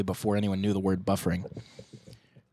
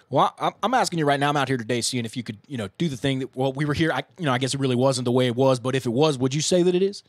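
rambling interviewer gibberish; string nonsense phrases like a street interviewer; double talk impression; 2 semitones higher than usual. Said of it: "So I'll do my best impression".

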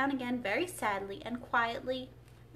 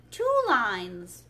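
loud storybook exclamation; crying out; 8 dB louder than usual. A narrator's reading. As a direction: call it out with more volume. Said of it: "cried the Mock Turtle".

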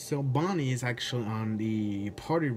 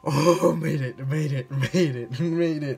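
much louder, higher joyful shout; relieved cheer; 5 semitones higher, 7 dB louder than usual. Real, not acted. Survived the night.

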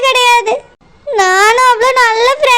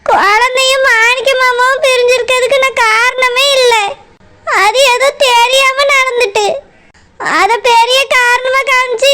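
tearful denial; crying. Acted. Daughter denies blame to father, crying. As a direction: sob out the denial. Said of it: "அழாதம்மா".

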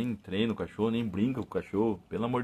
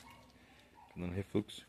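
nauseous; 4 semitones lower, 17 dB quieter, slower than usual. Real, not acted.

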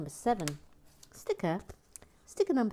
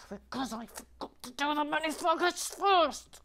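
sheepish excuse; 9 semitones higher than usual. Pretend.

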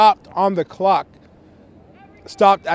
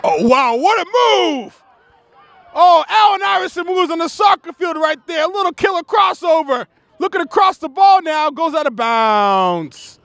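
high awed call, stretched and settling at the end; excited play-by-play; 7 semitones higher than usual. Real, not acted. Commentator calling a killer crossover, high excited amazement. Live call of dazzling move.

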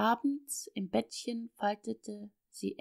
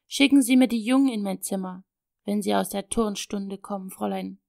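loud, fast, curt command; still angry; 7 dB louder than usual. Acted. Father ordering the governess to send the boys, angry. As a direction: order it sharply, still cross. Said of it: "gebot der Vater noch immer ärgerlich".

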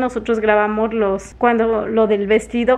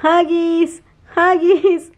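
imitating the little boy's bedtime yell, higher and louder; mock child yell; 5 semitones higher, 3 dB louder, much slower than usual. Mother imitating her son yelling for hugs. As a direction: echo his cry of Huggies from the bed. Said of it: "se acuesta y empieza a gritar".

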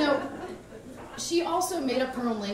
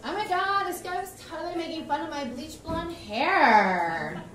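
high, louder indignant gush; excited outburst; 7 semitones higher, 4 dB louder than usual. Retold or imitated. Teen daughter telling mom about a rude guy, gushing. Retelling her own outraged complaint.

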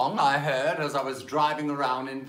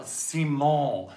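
playing Simon. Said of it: "I'm going to play".

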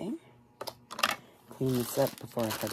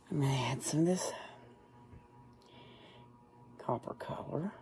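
whispering. Real, not acted. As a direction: whisper it under your breath. Whispers while doing makeup.

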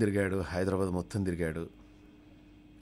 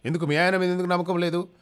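puzzled doctor; 12 semitones higher, 8 dB louder than usual. Acted.

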